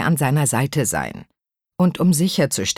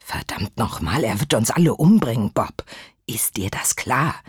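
lowered voice; 3 semitones lower than usual. Acted. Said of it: "Bruton senkte die Stimme".

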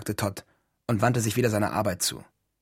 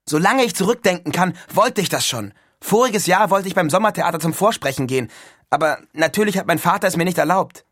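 loud, higher-pitched eager schoolboy; excited Neil; 6 semitones higher, 6 dB louder than usual. A narrator's reading. Neil tells Todd of his long-held wish, excited.

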